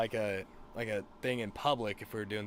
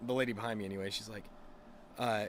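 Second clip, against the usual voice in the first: ordinary delivery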